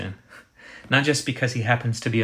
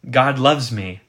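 louder, generalized declaration; general, abstract; 2 semitones higher, 6 dB louder, slower than usual. Shown as a demonstration. Preacher contrasting the abstract way of saying it, general declaration. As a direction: state it as a broad, impersonal fact. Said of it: "in some kind of general and abstract way".

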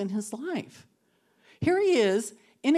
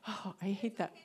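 laughing through tears; 8 dB quieter than usual. Real, not acted. Admitting to the women she is about to cry, laughing. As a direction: giggle while choking up. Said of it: "I am gonna cry".

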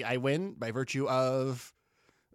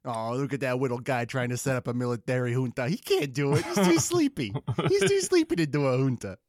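cooing at a toddler, mocking; patronizing baby talk. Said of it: "just patronizing him into a coup".

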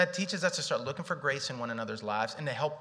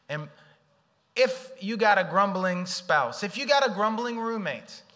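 emphatic preaching; 6 semitones higher, 7 dB louder than usual. Acted.

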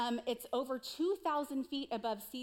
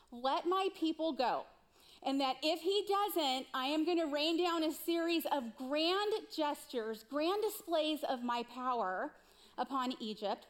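raised, higher-pitched proclamation; commanding; 4 semitones higher, 3 dB louder than usual. Retold or imitated. Preacher voices God's orders to Moses for Pharaoh, commanding. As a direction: deliver God's ultimatum, voice lifted.

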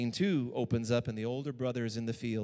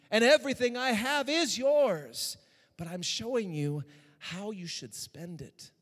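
tender; 5 semitones higher, slower than usual. Acted. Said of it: "with tenderness".

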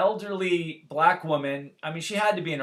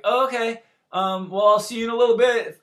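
stunned calm; 7 semitones higher, 7 dB louder than usual. Retold or imitated.

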